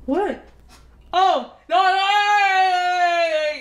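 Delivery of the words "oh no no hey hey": sing-song call. Real, not acted. Brother calling out, sing-song.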